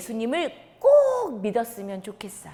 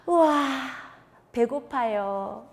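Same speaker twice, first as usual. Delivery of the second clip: excited wake-up; 4 semitones higher, slower than usual. Acted. Girl wakes up hungry.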